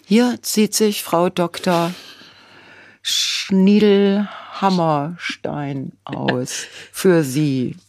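slow, drawn-out teaser announcer; mock announcer. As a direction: announce it like a cheesy magazine cover. Mock magazine cover announcement.

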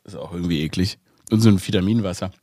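talking through a mouthful of orange; chewing between words; chewing while talking. Real, not acted. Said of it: "ich esse gerade eine Orange".

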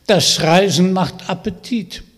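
chewing while talking; smacking lips. Acted. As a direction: talk through a mouthful of food. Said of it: "sagte er schmatzend".

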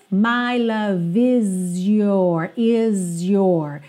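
"is your" with the S buzzed like a Z; Z-ish S in is. Shown as a demonstration. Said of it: "O S do is aqui fica meio Z". ("is your" com S soando como Z)

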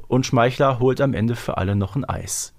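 normal talking voice

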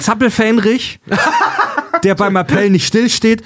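words broken by laughter; giggling through the sentence; laughing while talking. Real, not acted. Laughs while listing silly titles.

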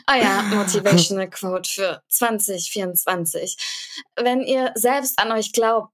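grand motivational speaker; main character voice. Pretend. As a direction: deliver it like a self-important guru. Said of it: "wechsle ich einmal in die Stimme von dem Main Character".

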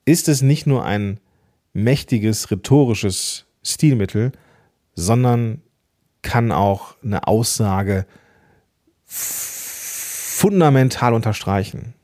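slow, with long pauses between phrases; measured, slow delivery with pauses for effect; dramatic pauses. Shown as a demonstration. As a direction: let each phrase land and pause before the next. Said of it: "kombiniert mit einer Pause".

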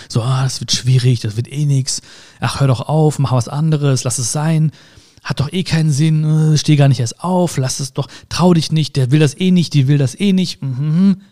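mildly downcast, running self-talk; dejected inner voice. Acted. Talking himself out of it when down, mildly dejected. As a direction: imitate a discouraging voice in your head. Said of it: "traurig oder niedergeschlagen bin oder so".

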